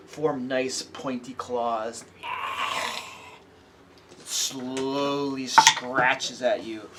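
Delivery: slow, drawn-out creepy description; game master narration. A narrator's reading. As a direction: savor each creepy detail. GM describes the attack.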